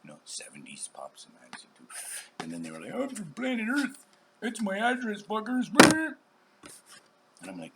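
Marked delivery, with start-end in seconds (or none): 2.9-5.7 mock defiant shout. Mock quoting someone's rude joke.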